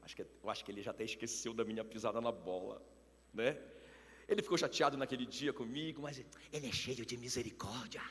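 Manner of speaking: Moisés falado mais grave e mais baixo; Moisés imitado. Retold or imitated. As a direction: fale como Moisés velhinho, confiante e manso. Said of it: "o Moisés tá dizendo assim". (Moisés imaginado, baixo e mais grave)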